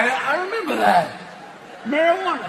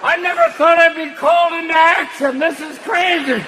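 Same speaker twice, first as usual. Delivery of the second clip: put-on confused old sperm; 5 semitones higher than usual.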